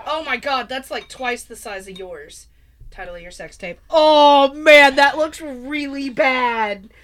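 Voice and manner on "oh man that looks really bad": loud, slow groan of disgust; disgusted shout. Real, not acted. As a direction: yell it out in revulsion. Disgusted at the drink.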